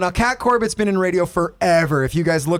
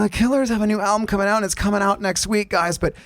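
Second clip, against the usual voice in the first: mock radio DJ; 3 semitones higher than usual. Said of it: "she's like".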